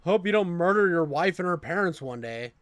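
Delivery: mock warning. Mocking someone warning a weird friend, loud mock warning.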